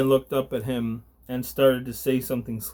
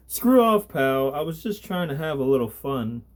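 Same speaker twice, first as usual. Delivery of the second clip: snapping thug; 3 semitones higher than usual. Acted. Thug snaps at Gabriel.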